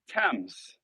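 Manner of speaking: Thames said as TEMZ; correct pronunciation. Shown as a demonstration. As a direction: Thames with a hard t and short e. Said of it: "I said it right".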